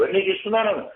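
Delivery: lightly acted seductive mind voice; voice of the tempting mind. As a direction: sweet-talk like the scheming mind luring a soul. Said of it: "ఇవన్నీ మనస్సు మాటలే".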